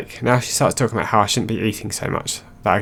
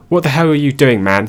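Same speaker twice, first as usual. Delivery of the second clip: put-on raised, higher yell at the kid; retold yell; 4 semitones higher, 4 dB louder than usual. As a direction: yell it at the careless kid, angry. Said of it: "start yelling at them".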